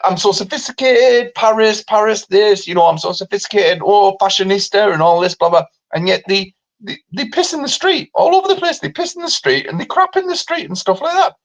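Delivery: hint of a hammed-up French snob; mock French. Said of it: "No, they go".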